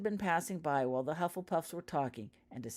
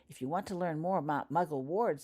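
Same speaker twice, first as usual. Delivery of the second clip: a touch louder, show-off tone; loudly; 3 semitones higher, 3 dB louder than usual. Acted. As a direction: speak up for the class to hear. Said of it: "said Shirley Ogg loudly".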